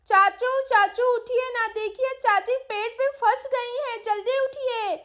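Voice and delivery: high, pressing wake-up call; urgent child's calling. Acted. Sweety waking uncle to help aunt, urgent calling. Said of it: "क्यों चिल्ला रही हो सुबह सुबह?".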